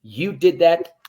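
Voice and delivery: put-on high, loud praise to a baby; praising parent. Parent cheering a child's first step, high and loud. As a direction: gush like a proud parent. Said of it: "our parents, they said".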